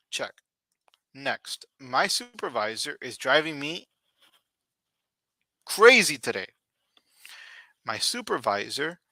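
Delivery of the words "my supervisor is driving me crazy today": rising to a louder exasperated "crazy"; exasperated complaint. Shown as a demonstration. Teacher reads an annoyed example sentence, exasperated. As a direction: complain about the boss, hitting "crazy". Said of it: "example sentence read".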